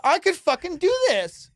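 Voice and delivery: high-pitched, laughing outburst; exasperated disbelief. Real, not acted. Comic scoffing at easily copied art, incredulous high outburst. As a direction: blurt it out, voice leaping way up. Incredulous rant at simple counterfeited painting.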